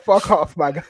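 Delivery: loud, curt mock cuss-out; retold angry outburst. Fan recalling his rage at a goal, loud mock snap. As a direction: blurt it out like you're fed up. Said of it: "I, I was angry".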